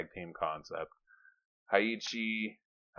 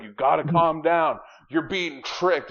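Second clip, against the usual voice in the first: high, loud, slow mock warning; bear character pleading; 8 semitones higher, 8 dB louder than usual. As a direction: drag out the hammed-up warning. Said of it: "it's like".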